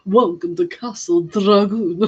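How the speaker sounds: a hint of a grand castle host; lightly voiced spooky welcome, slowed; mock game narrator greeting guests. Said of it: "Sounds like something from Castlevania".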